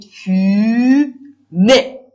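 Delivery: loud, long fumer with rising é; loud drawn-out word. Shown as a demonstration. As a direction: stretch fumer loudly so all hear the é. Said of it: "بچه ببینید".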